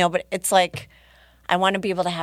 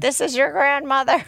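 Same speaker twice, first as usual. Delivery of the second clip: higher, louder spooky ghost; 7 semitones higher, 5 dB louder than usual. Pretend. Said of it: "like from the story".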